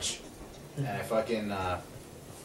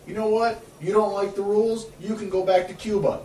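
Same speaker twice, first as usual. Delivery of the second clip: higher-pitched mock cop telling off a kid; retold cop's rebuke, pitched up; imitating a cop; 8 semitones higher than usual. Cop scolding the teen who broke curfew, imitated sternly. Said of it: "exactly what this cop told me".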